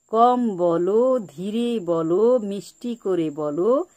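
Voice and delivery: ধীরে বলো drawn out slowly, each word stretched; slow demonstration. Shown as a demonstration. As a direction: show slowness by speaking slowly. (ধীরে ধীরে টেনে টেনে বলা)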